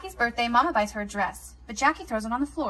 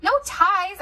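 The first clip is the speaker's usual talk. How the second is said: firm; 9 semitones higher, 6 dB louder than usual. Acted. Snatching tie away.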